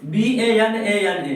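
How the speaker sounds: each letter spaced out for the class; teacher dictating the letters slowly; slow spelling. Shown as a demonstration. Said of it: "spells letters slowly".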